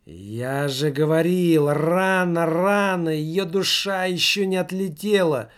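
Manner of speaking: a worried man insisting it's too early; tense sceptic. Acted. Sceptic voiced in seance story.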